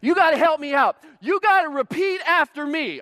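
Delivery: big high-pitched showman voice; hammed-up athlete working a crowd; imitated gladiator athlete. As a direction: play the over-pumped rally star. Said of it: "he talked like this".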